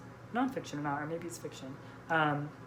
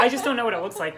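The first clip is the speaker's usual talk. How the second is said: laughing; 5 semitones higher, 9 dB louder, faster than usual. Real, not acted. Laughing at friend's confusion.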